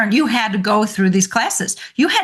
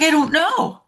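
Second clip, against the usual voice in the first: put-on blank kid; 6 semitones higher than usual. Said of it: "he was like".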